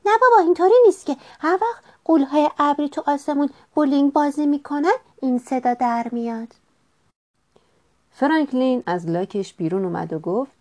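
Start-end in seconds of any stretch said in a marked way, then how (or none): 0.1-6.5 quick, high-pitched little voice; amused snail. A narrator's reading. Snail laughs off hawk's thunder story, quick high voice. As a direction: rattle it off fast and high. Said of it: "حلزون خندید و گفت".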